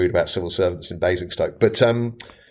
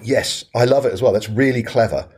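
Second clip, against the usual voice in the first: mildly excited, higher-pitched approval; retold excitement; 3 semitones higher than usual. Owner replying to consultant's napkin idea, retold enthusiasm. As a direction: lightly re-enact keen agreement. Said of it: "he was so excited about it".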